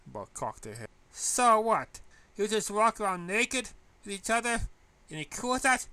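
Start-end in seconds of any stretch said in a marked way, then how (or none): 1.1-5.9 high, loud incredulous questions; astonished. Acted. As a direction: pile on the disbelief.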